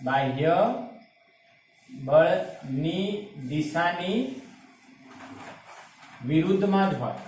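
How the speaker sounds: very slow, each word pulled apart with long pauses; slow emphatic repeat. Shown as a demonstration. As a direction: spell the rule out slowly so students catch it. (ધીમે ધીમે, ભાર દઈને)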